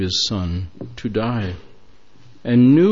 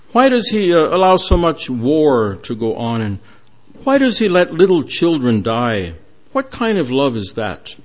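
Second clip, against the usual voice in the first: raised, loud taunting questions, pitch climbing on each "why"; mocking challenge; 3 semitones higher, 3 dB louder than usual. Young men taunting the man with the Bible, loud and scornful. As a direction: throw the questions at him like a jeer.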